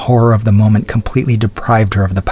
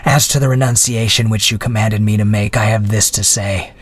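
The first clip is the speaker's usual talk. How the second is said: contemptuous. Acted. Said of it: "replied the prisoner contemptuously".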